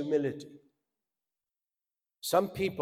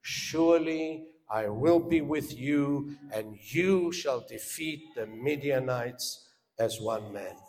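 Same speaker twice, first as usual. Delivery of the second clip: God reassuring; 3 semitones lower, 3 dB quieter than usual. Retold or imitated. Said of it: "he says to him".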